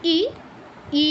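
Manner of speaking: ই said short and crisp; short vowel ই. Shown as a demonstration. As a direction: clip ই short. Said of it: "কিরকম?".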